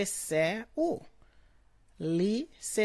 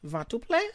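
rising question on "plein", pitched higher; question tune; 6 semitones higher, 5 dB louder than usual. Shown as a demonstration. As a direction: lift "Ventre plein?" up at the end like asking. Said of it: "Like a question".

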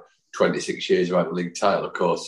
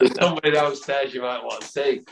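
higher-pitched mock Irish landlady; Irish accent; 6 semitones higher than usual. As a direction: put on a high Irish lilt. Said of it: "that was a terrible Irish accent".

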